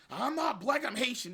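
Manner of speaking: high, whiny mock protest; mock objector. Mocking a Haitian objector.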